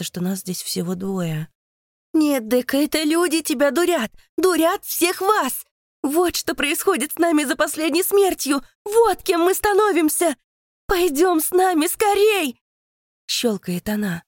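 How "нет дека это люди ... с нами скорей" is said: much higher, louder frantic pleading; desperate high shriek. Acted. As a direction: beg her to see the truth. Creature desperately pleads her case.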